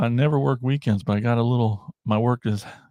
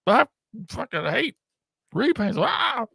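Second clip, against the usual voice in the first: high, hammed-up outraged fan; imitating a fan who hates repaints, pitch climbing high; mock rant; 11 semitones higher than usual. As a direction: squeal out a mock angry rant, much higher. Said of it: "they're just like".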